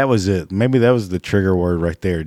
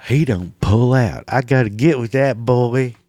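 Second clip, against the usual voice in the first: lightly voiced eager hick girl; a hint of a lusty country girl; mock redneck woman; 3 semitones higher than usual. Mocking smitten redneck woman.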